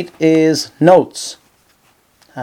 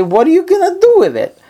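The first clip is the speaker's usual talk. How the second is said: puzzled question; 14 semitones higher than usual. Retold or imitated. Husband asking his wife about the note, high puzzled voice. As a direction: ask as if it makes no sense.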